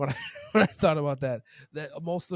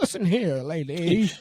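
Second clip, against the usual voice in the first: put-on loud, quavering, shaky voice of a very old person; 3 semitones higher, 5 dB louder than usual. Speakers joke about how old people talk, imitating shaky old person. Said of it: "That's how old white people talk".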